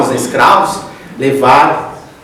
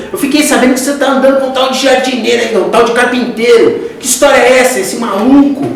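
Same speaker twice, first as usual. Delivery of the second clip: pai indignado imitado, voz bem mais aguda; acusação encenada; 7 semitones higher than usual. Retold or imitated. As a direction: acuse o filho, imitando um pai contrariado. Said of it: "o pai dele já chegou acusando". (acusador, em tom agudo encenado)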